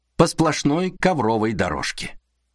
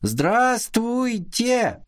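high, very slow sing-song greeting; drawn-out rehearsed kids' hello; rehearsed children's chorus; 11 semitones higher, much slower than usual. Acted. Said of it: "отрепетированно грянули".

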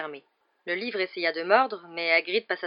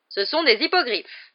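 high, slow, proud announcement; joyful; 6 semitones higher, 6 dB louder, slower than usual. A narrator's reading. Hagrid presenting his hippogriffs to pupils, joyful. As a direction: present them with loud delight. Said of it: "annonça Hagrid d'un ton joyeux".

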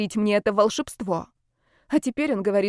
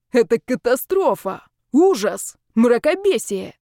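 raised, dramatic exclamations; melodramatic outrage; 3 semitones higher, 4 dB louder than usual. Acted. Zaretsky lamenting to his friends, melodramatic outrage. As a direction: proclaim each word like a catastrophe. Agitated man laments a disaster.

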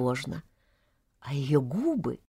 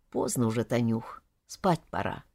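softly, in a lower voice; quiet, gentle hint; 5 semitones lower, 7 dB quieter than usual. A narrator's reading. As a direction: say it low and soft, winding the evening down. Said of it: "проговорил тихо". (тихо, вполголоса)

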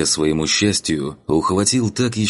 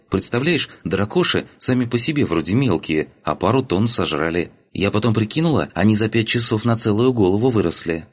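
lightly voiced girl, a bit higher; lively chatty girl; 3 semitones higher than usual. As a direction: chatter away like an excited girl telling a story. (слегка озвученная бойкая девушка)

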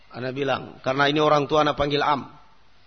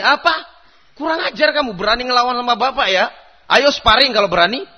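mock angry father; 4 semitones higher, 4 dB louder than usual. Voicing hot-tempered father.

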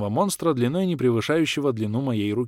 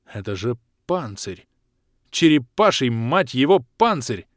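surprised; 4 dB louder, slower than usual. Acted. Hero sees shell.

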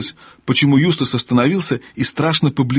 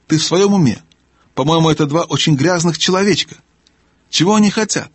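higher-pitched querulous gnome; testy gnome, bewildered; 5 semitones higher than usual. Acted. Gnome questioning the owl about two children, bewildered. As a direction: question them in a higher character voice.

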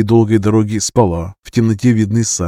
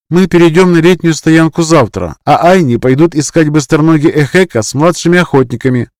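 higher, louder voice of a firm elder; elder woman; 7 semitones higher, 6 dB louder than usual. Acted. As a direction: announce the plan like a stern elder. The elder woman gives orders.

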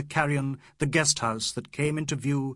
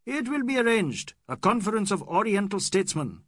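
grand proclaiming; 8 semitones higher, 3 dB louder than usual. Acted. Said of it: "Aziz grandly proclaiming".

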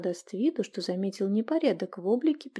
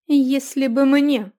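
bitter; 5 semitones higher, 8 dB louder, slower than usual. A narrator's reading. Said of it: "горько сказала трактирщица".

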